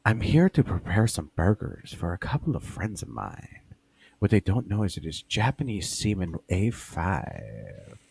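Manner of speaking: lightly voiced cooking host, slowed intro; a hint of a cheesy YouTube chef; Guga impression. Imitating a grill YouTuber presenting his burgers. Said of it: "like fucking Guga".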